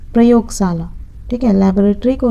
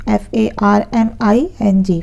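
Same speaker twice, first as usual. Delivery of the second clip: spelling out. Shown as a demonstration. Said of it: "खेती को कहते हैं फार्मिंग".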